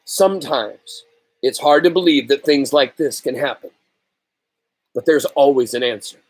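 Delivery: gentle voice. Acted. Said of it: "in a gentle voice".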